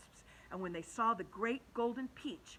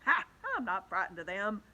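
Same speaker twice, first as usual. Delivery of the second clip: defiant shout; 8 dB louder than usual. Acted. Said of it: "shouted the centipede".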